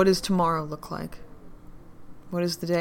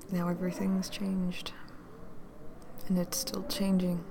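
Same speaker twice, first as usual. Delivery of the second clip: whisper; 7 dB quieter than usual. Acted.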